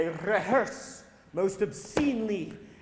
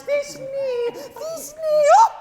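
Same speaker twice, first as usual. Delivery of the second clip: very high squeaky falsetto cry; monstrous little voice; 4 dB louder, much slower than usual. Acted. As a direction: squeak it out like a tiny damsel. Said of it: "I'll speak in a monstrous little voice".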